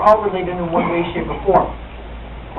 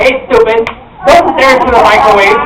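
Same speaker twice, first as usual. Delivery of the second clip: louder mock scolding from grandmother; raised-voice retold telling-off; 6 dB louder than usual. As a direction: scold loudly, imitating an irritated grandma.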